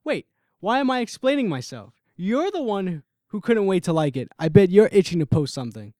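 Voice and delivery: heated accusation. Acted. Heated argument in the truck.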